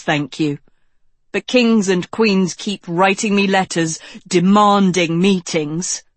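a touch of defensive complaint; lightly voiced irritated young king. Young king justifying himself to his friends, mildly irritated. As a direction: grumble loudly about the demands, lightly in character.

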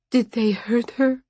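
high, fearful question; anxious dying mother. A narrator's reading. Dying woman asks if they hurt her child, high and fearful. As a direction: lift the voice high, pleading to know.

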